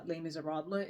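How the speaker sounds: Les Miserables in an English accent; English pronunciation of the French title. Shown as a demonstration. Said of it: "say it with the English accent".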